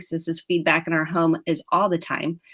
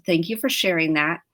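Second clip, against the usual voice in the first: lower, gentle reassuring tone; calm acknowledgement; 3 semitones lower than usual. Retold or imitated. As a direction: model a calm, listening parent. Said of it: "and I wanna go".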